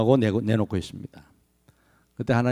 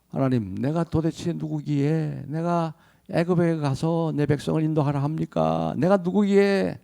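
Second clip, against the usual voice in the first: soft, slow, doubting plea; pleading Moses; 4 semitones higher, 4 dB quieter than usual. Acted. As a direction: ask God who am I, softly. Moses voiced protesting to God. (모세의 조용하고 느린 항변)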